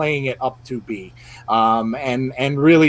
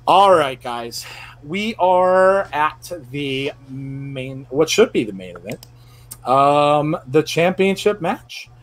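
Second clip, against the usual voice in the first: slow, drawn-out mock Scottish announcer; a clumsy Scottish accent stretched out slow; bad Scottish accent; slower than usual. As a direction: ham up a Scottish ring announcer, badly. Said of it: "that was a really bad accent".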